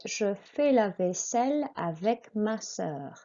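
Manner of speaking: "vaisselle" with long S and sounded L; careful French for repeating; model French pronunciation. Shown as a demonstration. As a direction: model the phrase carefully, rounded vowel in "sœur". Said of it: "écoutez".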